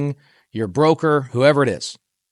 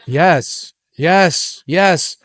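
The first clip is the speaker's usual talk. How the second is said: emphatic yes; 4 semitones higher, 3 dB louder, much slower than usual. Retold or imitated. Investor answering agent's hopeful question.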